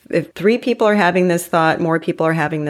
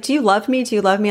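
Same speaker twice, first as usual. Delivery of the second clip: lightly voiced pleading child, higher pitch; imitating needy daughter; 4 semitones higher, faster than usual. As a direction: mimic a daughter anxiously asking, pitched up. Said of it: "she's always like".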